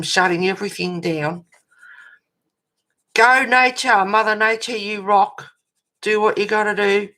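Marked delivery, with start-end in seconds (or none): 3.1-7.1 cheering. Real, not acted. Cheering on Mother Nature.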